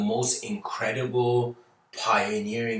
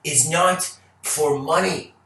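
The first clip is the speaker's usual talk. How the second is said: louder, higher indignant how dare; mock outrage; 5 semitones higher, 5 dB louder than usual. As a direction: play up the outrage.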